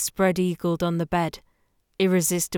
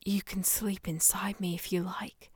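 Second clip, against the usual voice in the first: sweet nothings; 9 dB quieter than usual. Acted. Whispered sweet nothings after lovemaking.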